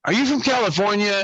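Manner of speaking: lightly voiced smarmy guy asking; mock pickup line. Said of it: "He looks at her and says".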